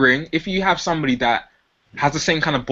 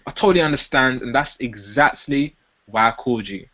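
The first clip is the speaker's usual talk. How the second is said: elevated tone; 2 semitones lower than usual. Shown as a demonstration. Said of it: "a bit of an elevated tone".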